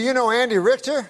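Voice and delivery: put-on drawling Southern good old boy; lightly voiced Georgia redneck. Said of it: "That's how he talks".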